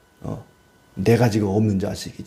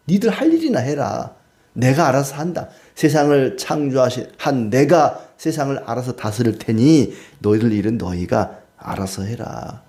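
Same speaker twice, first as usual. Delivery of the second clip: stern God. Acted. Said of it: "하나님께서 이제 말씀하시는 겁니다".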